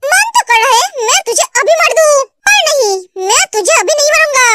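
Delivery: mildly heated warning to a rival; understated threat from a jealous lover; threatening protective lover. Acted. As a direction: warn him off with controlled menace. Plays man threatening rival.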